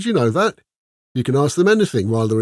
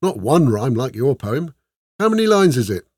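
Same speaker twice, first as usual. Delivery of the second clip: higher and louder, bubbling praise; enthusiastic Ola; 7 semitones higher, 5 dB louder than usual. A narrator's reading. Ola argues with Esmeralda about proper poetry, gushing and higher. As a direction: gush over every rhyme.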